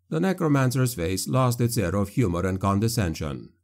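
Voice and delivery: ordinary delivery, nothing marked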